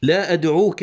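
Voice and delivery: measured, connected poetry reading; verse recitation. Shown as a demonstration. Teacher quoting the poet's line, measured recitation. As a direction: recite "لا أدعوك" as flowing verse. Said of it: "قال الشاعر".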